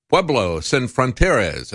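"Pueblo sin fronteras" in slow, Americanized Spanish; redneck Spanish accent. Real, not acted. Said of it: "apologize my redneck accent here".

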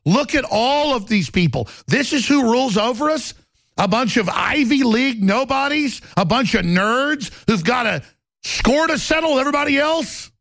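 getting angry. Real, not acted. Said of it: "But I'm getting angry".

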